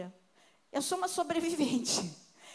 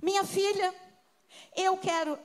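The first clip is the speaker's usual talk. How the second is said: stern mother's decree; 5 semitones higher, 4 dB louder than usual. Retold or imitated. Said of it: "eu cresci ouvindo um decreto".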